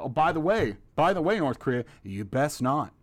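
hammed-up warning; mock Trump. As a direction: wag a finger as a blustering president. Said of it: "His little off-the-cuff fire and fury".

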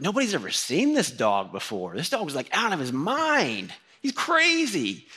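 mock alarmed neighbor, climbing up; retold local's words. Friend relays dog owner reports.

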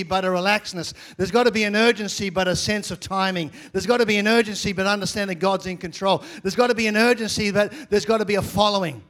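rhythmic repeated preaching refrain, loud on urgency. Acted. Pastor to the congregation, rhythmic preaching refrain. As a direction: drive each line of the refrain home.

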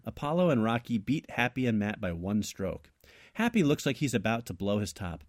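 measured read-aloud of a written tale; story narration. A narrator's reading. Co-host reads his invented sequel, steady story narration. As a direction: narrate the plot in steady phrases.

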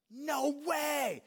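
high, loud, gleeful shout of disbelief; Bob Goff's voice. Retold or imitated. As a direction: belt it out like a delighted, whimsical friend. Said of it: "If you know his voice, it's exactly how it sounds".

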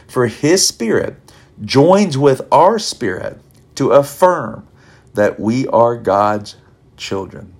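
slow, deliberate reading of the verse; scripture reading. Acted. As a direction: lay out each word of the passage. Reads scripture passage.

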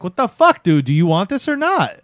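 high, loud mock exasperation; exasperated girlfriend. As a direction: imitate a fed-up girlfriend demanding an answer. Girlfriend snaps in retold argument.

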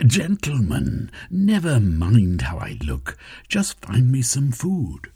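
slow, firm brush-off; Velveen, impatient. Acted. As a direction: cut the fuss short.

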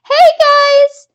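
high, loud call from far off; yell. Acted. Dead girl calling out to the boys, eerie and loud. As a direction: shout across the lake to them. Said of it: "I yell".

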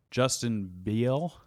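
slow Southern drawl on Justin Beal; Southern accent. Acted. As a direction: stretch the name out Southern-style. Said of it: "You said that in a really southern accent".

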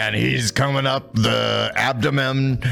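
put-on play-by-play voice; gruff sports announcer. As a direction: call it like a gruff commentator. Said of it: "I need your best announcer voice".

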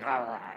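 low imitated dog growl rah rah rah; mock dog growl. Preacher imitating a growling dog at church. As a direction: growl like an angry Alsatian, lightly. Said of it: "with this dog going".

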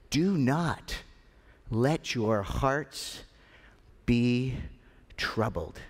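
slow, with weighty pauses between phrases; deliberate comfort, settling down on "troubled"; measured reassurance. Acted. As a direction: space out "Do not ... let your hearts ... be ... troubled". Jesus's reassurance, spaced out word groups.

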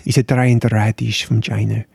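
lightly put-on Dutch accent; rough Dutch accent. Shown as a demonstration. Explaining a mooli to the co-host, rough Dutch accent. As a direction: attempt a rubbish Dutch accent. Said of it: "a Dutch accent".

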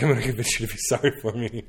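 quick line breaking into a laugh; amused quote. Retold or imitated. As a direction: quote the comic, laughing by the end.

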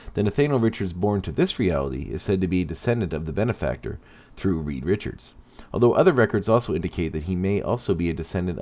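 steady documentary narration; story narration. Acted. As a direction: narrate like a history podcast. Narrates character history.

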